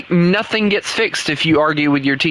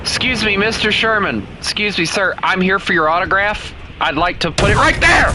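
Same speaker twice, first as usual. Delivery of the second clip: higher, pushy autograph hunter ending in a shout; starts higher and polite, then yells the last line; eager fan voice; 4 semitones higher than usual. Pretend. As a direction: play an overeager fan chasing the player. Acting an eager autograph seeker.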